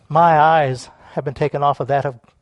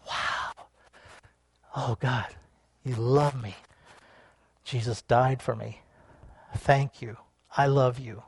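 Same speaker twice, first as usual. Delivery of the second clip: soft, low, reverent prayer; hushed, slow gratitude with long pauses; hushed awe; 5 semitones lower, 10 dB quieter than usual. Acted. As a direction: murmur it to God in wonder. Acting awed new believer praying.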